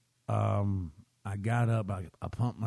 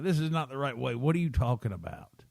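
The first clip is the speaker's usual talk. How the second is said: mildly exasperated retelling, a bit higher; the second time, more fed up; a touch of road-trip frustration at the son; frustrated; 3 semitones higher, faster than usual. Retold or imitated. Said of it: "I'm getting frustrated at this point".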